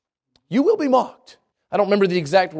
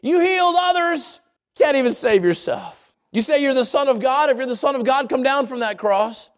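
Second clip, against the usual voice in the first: mocking taunt; 4 semitones higher than usual. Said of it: "Can you hear them yelling at the Savior".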